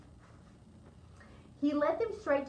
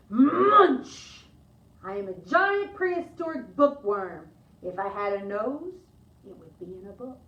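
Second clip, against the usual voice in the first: loud munch then a louder creature voice; munching bookworm; 8 dB louder, slower than usual. Acted. Child as a prehistoric bookworm greeting librarians, loud munch. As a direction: chomp out the word like a hungry worm. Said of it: "some other creatures who would like to say hello".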